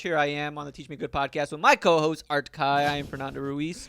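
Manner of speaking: upbeat podcast host intro; announcer voice. Acted. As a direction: pump it up like a show host. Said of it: "Why are you doing this like an intro?".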